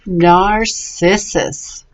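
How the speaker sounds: "narcissus" slowly, with s sounds for the C; slow, careful "narcissus", C said as s; soft C pronunciation. Shown as a demonstration. Teacher explains the soft C, slow careful pronunciation. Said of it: "It's a soft C".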